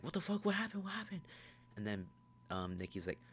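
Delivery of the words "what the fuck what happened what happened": high-pitched mock panic; Bear. Bear startled by her change, high mock panic. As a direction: rattle it out in a high, alarmed imitation.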